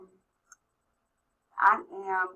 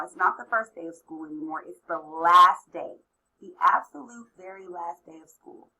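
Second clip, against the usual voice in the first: guided visualization. Acted. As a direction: gently lead them to imagine.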